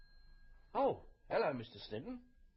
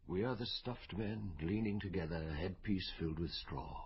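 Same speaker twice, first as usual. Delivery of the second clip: reciting Eliot; 5 semitones lower than usual. Acted. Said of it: "You read Eliot?".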